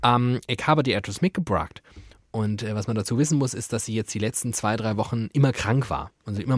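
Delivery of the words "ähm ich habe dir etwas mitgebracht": lightly imitated American-accented German; small American pupil addressing the teacher; little American student. American pupil brings teacher a gift, imitated American accent. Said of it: "amerikanischen, äh, Student, einen kleinen".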